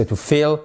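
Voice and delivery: "feel" said as "fill", short lax vowel. Shown as a demonstration. Teacher explains the verb meaning remplir, short I in "feel". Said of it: "avec un I court".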